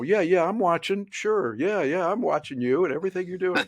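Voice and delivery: high, dismissive yeah yeah; fake attentive. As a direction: brush it off while pretending to watch. Distracted viewer faking attention.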